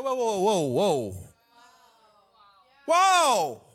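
balking, then one big loud whoa; mock alarm. Disciples balking at going to Samaria, mock alarm. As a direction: call a halt in acted shock.

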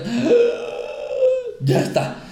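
P=A; exhausted release. Shown as a demonstration. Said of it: "hasta que ya llegues a un punto de".

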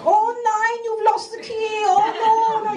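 high, panicky mock boss; boss going mental. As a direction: ham up the frantic German boss. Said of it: "He's like".

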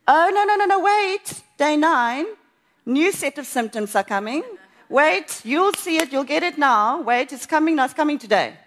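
loud, high alarmed voice; panicky. Retold or imitated. Voicing her own fearful thoughts about day nine, panicky. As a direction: dread the next symptoms out loud.

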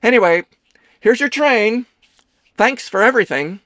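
high, loud brisk politeness; guarded politeness. Acted. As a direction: brush him off brightly. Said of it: "Leo armored up".

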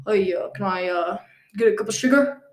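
low-pitched, hesitant mobster asking a favour; mobster cover voice. Pretend. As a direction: play an awkward mobster at the door. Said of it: "very threatening".

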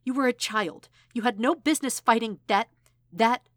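aunt yelling at her nephew; angry shouting. Acted. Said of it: "From hugs to shouting".

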